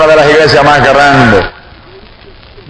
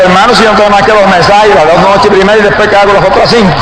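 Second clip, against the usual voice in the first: higher, agitated retold protest; near-shouted protest; 4 semitones higher, 4 dB louder than usual. New preacher overwhelmed by a pastor's invitation, near-shouted protest. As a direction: protest to the pastor, almost yelling. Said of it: "Yo por poco le grito".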